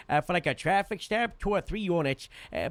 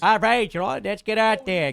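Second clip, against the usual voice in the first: pumped up; 5 semitones higher, 7 dB louder than usual. Real, not acted. Pumped up after the chant.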